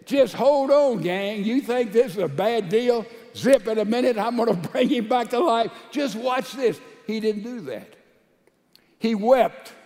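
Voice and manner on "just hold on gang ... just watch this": lightly acted breezy assurance, raised pitch; imagined confident Jesus. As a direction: play a casual miracle worker promising a quick fix. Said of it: "you would think he would have said".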